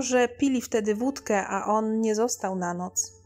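ordinary delivery, nothing marked

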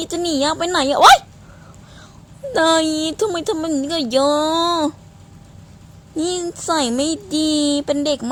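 a hint of a scolding grandma calling a runaway kid; lightly voiced doting granny, mock hurt; playing granny. Streamer playing granny chasing the player who fled, mock scolding. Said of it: "กูจะเป็นย่าหรือกูจะเป็นแม่วะ".

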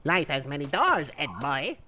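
mock sage. Wise-mentor bit in game.

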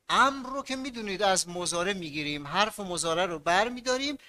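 normal talking voice

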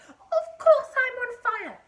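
high, drawn-out outraged yell. A narrator's reading. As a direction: bellow it back in a high screech. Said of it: "she yelled".

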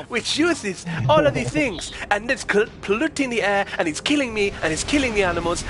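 mock African-accented lecture. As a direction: imitate a stereotypical African accent, making a solemn argument. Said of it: "it's a stereotypical African accent".

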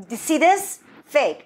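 lightly faked Latina accent, high question then dropped answer; amateur Latina accent, punchy reveal; bad Latino accent. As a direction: put on a rough Latino accent. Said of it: "doing a very bad Latino accent".

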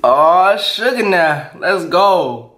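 loud and high, pumped; hyped up. Real, not acted. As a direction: cheer yourself on loudly. Hyped over sweet crab meat.

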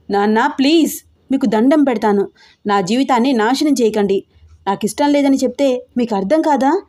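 put-on pleading girl. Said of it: "అని ఎవరిదో అమ్మాయి వాయిస్".

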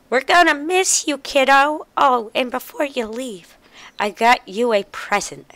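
a hint of a doting mother; the player voicing his game mom, fond and sweet; lightly voiced mom.

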